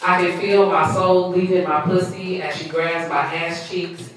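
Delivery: measured spoken-word reading; poem recitation. Acted. Poet reciting own piece to listeners, spoken-word reading.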